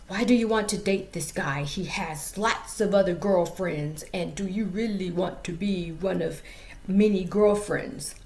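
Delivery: put-on amateurish African dude accent; put-on African accent for a study buddy. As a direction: imitate an African man, slightly stilted. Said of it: "this is my African dude voice".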